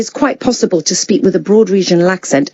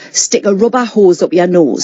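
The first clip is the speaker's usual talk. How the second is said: demonstration phrase in Geordie; Geordie accent; 2 semitones lower than usual. Shown as a demonstration. Actor giving her coaching phrase, Geordie accent. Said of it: "Like in Geordie".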